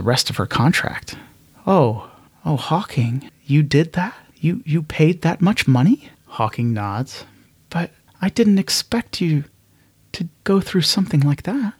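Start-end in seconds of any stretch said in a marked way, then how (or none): 1.7-6.1 higher, stammering disbelief; Echo astonished. Acted. Echo learns Hawking bought her contract, voiced high and disbelieving. 7.7-11.7 clearly higher, earnest protest; Echo's voice. Acted. Echo tells Hawking, touched, in a higher voice.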